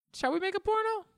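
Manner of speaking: very high Shall we make a porno; a falsetto trailer line; mock falsetto ad. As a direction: squeak the question. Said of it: "imagine that being marketed".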